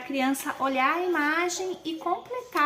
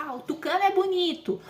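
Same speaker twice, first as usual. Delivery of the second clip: put-on child's answer; 6 semitones higher than usual. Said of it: "a criança vai dizer".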